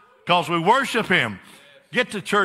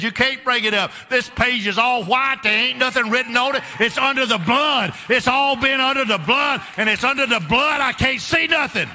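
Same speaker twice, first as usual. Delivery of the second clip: raised, insistent courtroom defense; triumphant defense; 5 semitones higher than usual. Acted. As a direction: defend the case with rising triumph. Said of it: "And he says".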